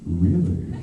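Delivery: delighted disbelief; mock excited. Excited retold reply.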